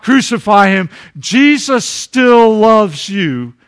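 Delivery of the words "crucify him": mock crowd shout. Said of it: "or you shout".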